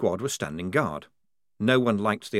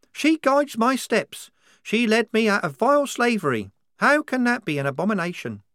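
put-on higher, louder voice for a devout girl soldier; a zealous young recruit, fervent and sure; higher fervent believer voice; 11 semitones higher, 5 dB louder than usual. A narrator's reading. Wazza voiced, devout conviction.

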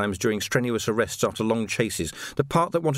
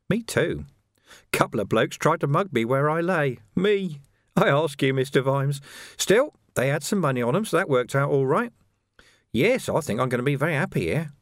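higher, sly and gleeful; gloating villain; 5 semitones higher than usual. Acted. Carcer gloating to Vimes about his release, sly and gleeful. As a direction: gloat with oily glee.

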